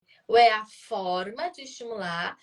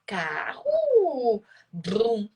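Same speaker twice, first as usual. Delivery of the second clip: playful naming demo; much slower than usual. Shown as a demonstration. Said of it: "Você vai ter que interpretar".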